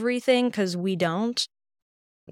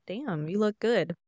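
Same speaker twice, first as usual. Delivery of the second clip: impressed aside. Retold or imitated. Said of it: "I was like".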